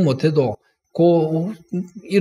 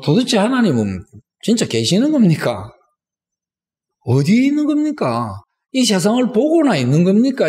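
따져 묻기; 3 semitones higher than usual. Acted. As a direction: demand answers in insistent questions. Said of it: "이렇게 우리가 따지고 물어본 적이". (하나님께 높은 목소리로 따져 묻듯)

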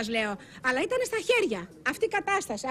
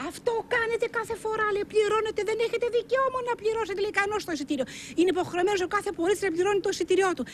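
lightly voiced angry conductor, higher pitch; a hint of the conductor's scolding, raised; quoting the conductor; 5 semitones higher than usual. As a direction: mimic the ticket inspector telling them off. Witness voices the conductor's retort.

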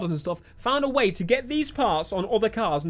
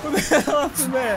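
laughing; 5 semitones higher than usual. Real, not acted. Laughing after a crash.

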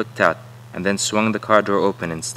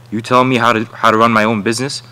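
indignant and raised, hitting back at him; a contractor snapping back at a worker who questions him; angry retort; 3 semitones higher, 6 dB louder than usual. Acted. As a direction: bristle at being told how to run things.

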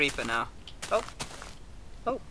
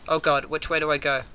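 ordinary talk, nothing marked

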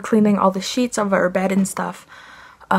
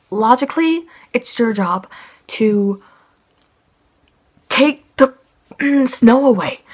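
real angry rant; 2 semitones higher than usual. Real, not acted. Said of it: "enjoyed me being mad".

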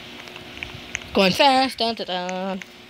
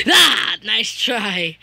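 taunting shout; 4 dB louder, much slower than usual. Real, not acted. Shouting at game.

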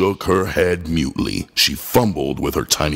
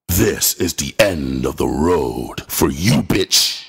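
brutal; 4 semitones lower than usual. Acted. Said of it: "I stated brutally".

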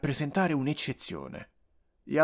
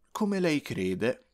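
conciliatory; 5 semitones higher, much slower than usual. Acted. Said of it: "fece conciliante il medico per non irritarlo".

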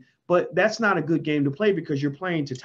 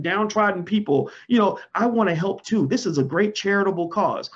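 mock condescension; 2 semitones higher than usual. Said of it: "It's sort of like".

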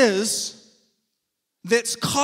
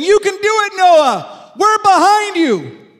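higher, louder cheerleader voice for Noah; mock cheering crowd; 6 semitones higher, 7 dB louder than usual. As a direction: cheer him on like a happy camper. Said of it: "on his left and his right saying".

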